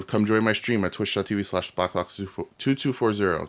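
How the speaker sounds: groggy just-woke-up voice; tongue still sleepy, stumbling words. Real, not acted. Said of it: "Can't speak 'cause I just woke up".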